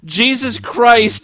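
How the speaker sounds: exasperated disbelief. Real, not acted. Disbelief at long sentence.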